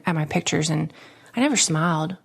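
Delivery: usual speaking voice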